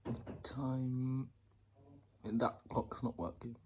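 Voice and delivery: slow hushed whisper. Real, not acted. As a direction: breathe the words. Quiet indoors, family outside.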